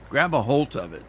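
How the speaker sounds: "holt" said with a firm t at the end; "Grab a holt of it" the way dad says it; dad's Minnesota phrase. Retold or imitated. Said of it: "is what he used to say".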